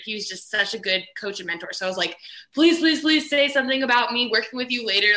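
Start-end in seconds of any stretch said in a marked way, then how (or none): 2.5-5.1 pleading. Retold or imitated. Acting out her silent plea.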